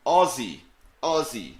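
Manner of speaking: "Aussie" said with a buzzing z, like O-Z-Z-Y; pronounced like Ozzy. Shown as a demonstration. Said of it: "you pronounce it like O Z Z Y".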